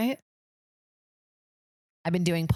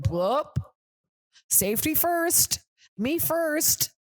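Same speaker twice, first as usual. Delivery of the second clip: breezy high "safety first, me first", drawn out slowly; sing-song it like a smug driver who just hit an animal; mock careless driver; 10 semitones higher, much slower than usual. Mocking a driver who runs over animals, high breezy voice. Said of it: "people be like".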